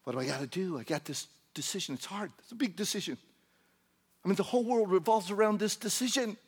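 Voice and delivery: hushed fussing that rises in pitch; mock fretting. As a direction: fret softly, then inflate it into mock importance. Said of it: "You catch yourself doing that".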